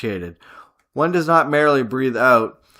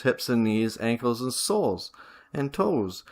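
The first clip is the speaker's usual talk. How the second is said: lower, subdued guiding voice; guided meditation; 3 semitones lower, 3 dB quieter than usual. Acted. Teacher guiding breath through the body, subdued meditation voice. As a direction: lead them softly down through the body.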